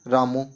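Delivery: रामो ending in a plain long o; रामो with o instead of au; common mispronunciation. Shown as a demonstration. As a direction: repeat रामो the way students wrongly read it, with o. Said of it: "इसको पढ़ते हैं रामो".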